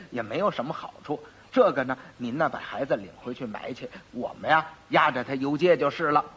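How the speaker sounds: put-on soft, low, kindly coaxing of an old woman; gentle persuading. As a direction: ease the old lady into it quietly. 差役温和劝老太太. (轻声温和地劝老太太)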